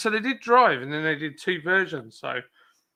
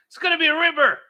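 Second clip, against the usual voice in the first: higher, louder Australian-ish attempt at ripper, RIPper stressed and falling; failed Aussie retry; 14 semitones higher, 7 dB louder, faster than usual. Shown as a demonstration. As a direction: keep failing the Aussie "ripper". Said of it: "No, I can't say it".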